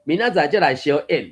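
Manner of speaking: slow, drawn-out classroom goodbye chant; schoolchildren's farewell. Acted. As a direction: chant it slowly like pupils taking leave. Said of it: "算讲拍招呼嘛". (學生囡仔放學拖長聲相辭)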